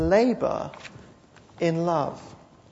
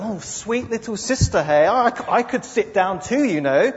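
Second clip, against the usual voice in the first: sarcastic hint; 4 semitones higher, 3 dB louder than usual. Acted. Martha's sarcasm at Mary.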